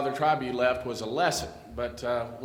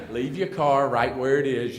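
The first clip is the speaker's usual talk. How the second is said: louder, firm command; stern colonel order; 2 semitones higher, 7 dB louder than usual. Retold or imitated. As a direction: bark the order like an officer.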